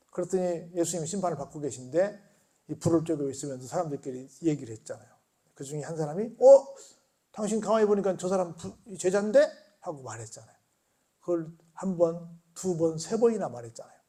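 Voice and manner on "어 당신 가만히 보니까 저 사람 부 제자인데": surprised accusation. Retold or imitated. Bystander accuses Peter by fire.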